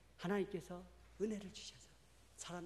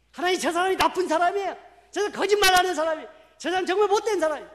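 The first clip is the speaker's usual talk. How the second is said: mock complaint; 11 semitones higher, 17 dB louder than usual. Retold complaining prayer to God.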